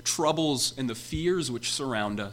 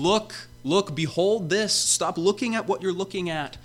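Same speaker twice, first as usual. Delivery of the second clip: urgent prophetic call; 5 semitones higher than usual. Acted. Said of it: "He's saying".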